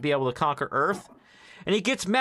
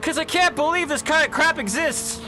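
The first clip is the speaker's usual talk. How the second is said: much higher mock incredulous quote; incredulous disgust; 11 semitones higher, 4 dB louder than usual. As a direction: imitate her outraged disbelief. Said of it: "She says".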